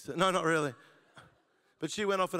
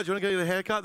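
put-on girl to girl; 3 semitones higher, 4 dB louder, much faster than usual. Shown as a demonstration. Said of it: "a girl says to a girl".

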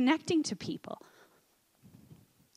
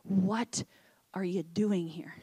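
low, soft, whispered question; hushed and gentle, sinking away softly; 6 semitones lower, 5 dB quieter, slower than usual. Acted. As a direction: drop to a whisper, pausing after the first word. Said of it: "hear that gentle whisper".

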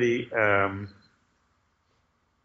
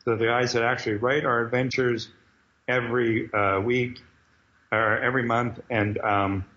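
raised, showy announcer voice; announcer introduction; 3 semitones higher than usual. Retold or imitated. Cyclops introducing the writers to the crowd, announcer style. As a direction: build up to "Knee Cheese" like a host. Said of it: "And Cyclops goes up and he goes".

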